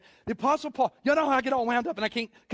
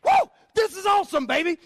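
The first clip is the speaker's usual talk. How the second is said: high, loud burst of joy; thrilled whoop; 8 semitones higher, 5 dB louder than usual. Retold or imitated. Paul overcome with joy mid-letter, thrilled shout. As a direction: blurt it out like you can't hold it in. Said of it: "he's like".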